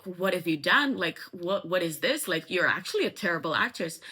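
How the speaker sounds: lightly acted angry confrontation; mock indignant demand; angry, retold. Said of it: "and he's super angry".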